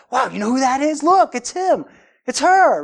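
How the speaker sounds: imitating excited fan. Fan spotting a famous athlete, mock starstruck excitement. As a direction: point out a celebrity in amazement.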